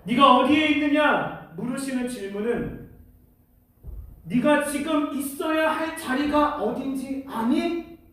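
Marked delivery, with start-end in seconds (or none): 0.1-1.5 slower, louder, measured asking; a deliberate, weighty question; searching divine question. Acted. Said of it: "이렇게 읽혀지더라고요". 4.2-8.0 slow, deliberate guiding question; spaced-out question, lifting at the end; searching divine question. Acted. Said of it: "라고 물으시는 질문이었어요".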